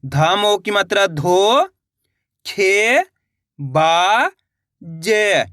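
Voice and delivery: slow spelling-out, each sound held alone; syllable-by-syllable reading. Shown as a demonstration. Teacher showing learners how it is read, syllable by syllable. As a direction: pause after every stretched syllable. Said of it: "इस तरीके से इनको पढ़ा जाता है".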